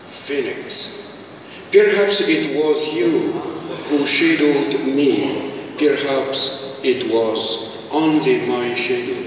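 slow, measured declamation with pauses; poetry recital. Acted. Poet reciting a lament to an audience, slow solemn recital. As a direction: recite it line by line, letting phrases hang.

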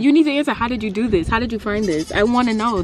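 high, loud insisting; excited demand. Real, not acted. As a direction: press him for the answer. Demanding to know how.

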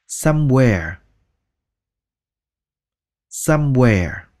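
"Somewhere" stretched to twice its length; slow somewhere. Shown as a demonstration. Teacher repeating the word slowly. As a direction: drag "Somewhere" out. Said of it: "slow repeat".

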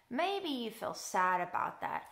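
understated, sympathetic drop; a touch downcast; mildly sad. Real, not acted. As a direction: suggest the sad feeling, gently subdued. Offering happy versus sad feelings.

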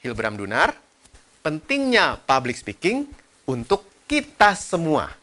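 emphatic, separated "Hilbram Dunar", "pentingnya", "kita semua"; penekanan. Shown as a demonstration. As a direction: punch "pentingnya" and "kita semua", pausing between phrases. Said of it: "Saya tekankan di kata". (ucapkan "pentingnya" dan "kita semua" dengan tekanan)

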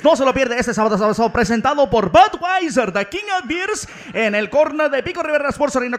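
loud hyped Spanish radio ad voice. Acted. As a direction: sell it like a late-night radio ad. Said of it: "those guys that do those commercials".

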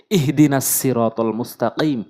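slow recited verse with a light ইহ; Quran recitation. Shown as a demonstration. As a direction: recite ইহদিনাস slowly, light throat হা. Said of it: "ইহ, এই যে ছোট হা রয়েছে". (ধীরে তিলাওয়াতের ঢঙে ইহদিনাস)

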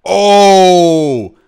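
loud, drawn-out mock "oh" of understanding; sudden realization. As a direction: act out the penny dropping, loudly. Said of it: "so that they're like".

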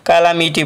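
"कालामिटी" with "laa" in the second syllable; variant pronunciation. Shown as a demonstration. Teacher listing readings of the word, "कालामिटी" pronounced kaa-laa-mee-tee. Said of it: "अलग-अलग pronunciation हो सकता है".

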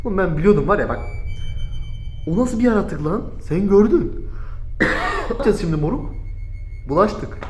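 nervous high hushed voice; shaken and scared. Real, not acted. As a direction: talk it over still rattled by fear.

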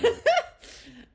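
big high loud burst of laughter. Real, not acted. Laughing along with the host, with a loud high laugh. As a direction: let a full laugh ring out.

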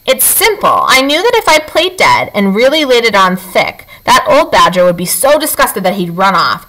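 a boastful little possum showing off. Acted. Possum boasting to the robot about playing dead, lightly voiced.

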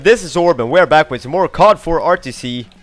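ordinary talk

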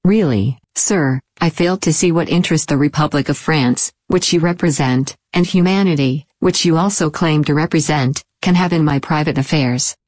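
high, haughty lady's voice; icy. A narrator's reading. Lady objects to the detective's prying, icily offended. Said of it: "she answered icily".

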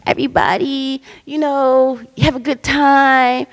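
a hint of a sugary teammate wishing everyone fun; sweet girl. Nice girl at the start line cheering everyone on, lightly sweet. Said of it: "this nice little, nice, nice girl was like".

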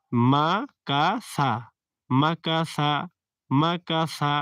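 মাকাসা drawn out slowly, long a vowels; আকার টেনে পড়া; recitation demo. Shown as a demonstration. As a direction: chant মাকাসা syllable by syllable. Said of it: "প্রত্যেকটা আকার দেওয়া আছে".

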